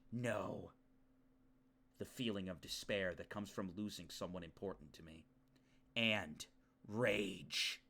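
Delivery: sombre, hushed confession of feeling; story narration. Acted. Reading Yuki's feelings of betrayal and despair, sombre narration. Reads game's inner monologue.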